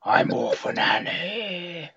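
lightly imitated, slow, soft orphan; mock the orphan voice gently; plucky hopeful orphan. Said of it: "first instinct for Little Orphan Annie was".

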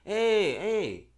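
playful mock African accent; put-on African accent. Host declaring love for gay listeners, in an African accent. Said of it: "why are you doing the African accent".

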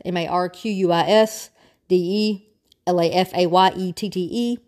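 each letter named separately, one at a time; spelled out letter by letter. Shown as a demonstration. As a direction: spell Marquis de Lafayette out for the class. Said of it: "Marquis de Lafayette".

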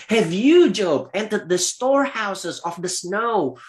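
opens high and loud, then settles; God's challenge. Acted. Preacher voicing God challenging Job, high and loud start. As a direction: thunder the first words like God. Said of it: "In verse twenty-two".

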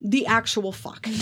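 high stunned start, then slow drawn-out swear; mock her own shocked reaction; stunned disbelief. She hears her real name, high stunned disbelief. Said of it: "And I was like".

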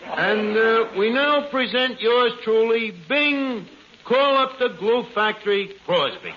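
put-on old-time radio announcer intro; formal show opener, presenting the star. Announcer opens the floor show.

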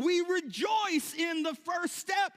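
loud, slow, high proclamation; preaching shout. Real, not acted. Preacher telling the congregation we rejoice, slow loud proclaiming. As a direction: proclaim each word slowly.

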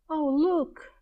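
high, eager exclamation; a child spotting a treasure in a shop window; excited cry. Acted. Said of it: "Jonathan had cried".

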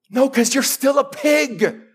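slow, high shout back at the pig; shouted retort. Acted. Preacher shouting back at the whining pig, slow and high. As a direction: bark the answer slowly.

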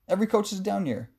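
badly faked East Coast accent. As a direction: put on a poor East Coast wiseguy accent. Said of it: "that was not my best accent".

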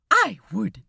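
playful scandalised gasp, then a falling never; mock gasp. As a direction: act shocked in fun. Mock-scandalised angel protesting.

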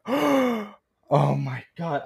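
high mock-horrified exclamation; shocked mother. Imitating appalled mother on the phone, mock shock. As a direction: start very high, then drop in disbelief. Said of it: "she's over here just like".

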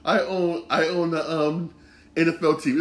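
airy mock-posh boast of owning a team; mock rich owner. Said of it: "it's like".

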